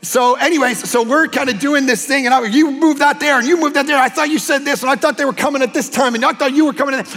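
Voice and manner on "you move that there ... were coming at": ordering his wife around the boxes, hammed-up; bossy mock orders. Retelling how he bossed his wife during the move, mock bossy. Pastor bossing wife while moving.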